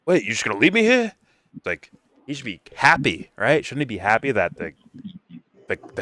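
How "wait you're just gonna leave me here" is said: higher, quick "you're just gonna leave me here?"; mock incredulous crook. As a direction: whine it like the abandoned crook. Mock Penguin's incredulous whine.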